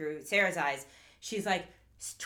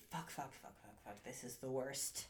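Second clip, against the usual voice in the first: hushed, low self-muttering; retold despair; 7 semitones lower, 17 dB quieter than usual. Host acting Sarah alone in her car, muttered despair. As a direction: sink into soft, low mock despair.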